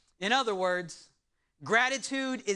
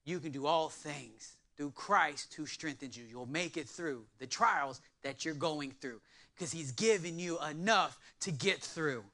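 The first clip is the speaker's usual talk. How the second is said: reassuring; 7 semitones lower, 7 dB quieter than usual. Shown as a demonstration. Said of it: "Cindy can say".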